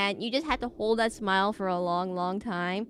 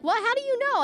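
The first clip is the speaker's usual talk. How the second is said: mock amazed; 14 semitones higher, 3 dB louder than usual. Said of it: "And I'm like".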